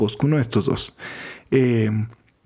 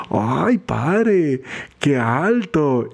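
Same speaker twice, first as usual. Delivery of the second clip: imitated admiring parishioner; much slower than usual. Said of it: "La gente siempre me decía".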